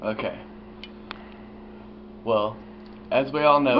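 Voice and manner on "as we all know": speaking without dentures; gummy, lisping words without teeth; toothless. Real, not acted. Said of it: "let me take my teeth out for you first".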